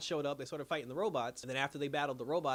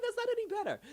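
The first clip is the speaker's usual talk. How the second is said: much higher, laughing disbelief; laughing reaction; 4 dB louder, faster than usual. Real, not acted. Reacting to Kara's enslave line, real laughing disbelief. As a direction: crack up while answering.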